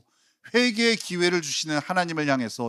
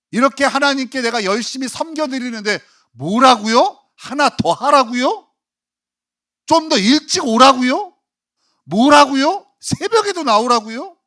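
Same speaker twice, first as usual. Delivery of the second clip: higher and louder, exasperated protest; preacher mocking a believer's outraged complaint; indignant churchgoer; 9 semitones higher, 10 dB louder than usual. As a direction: rant like an offended believer asked for more. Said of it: "분노하죠".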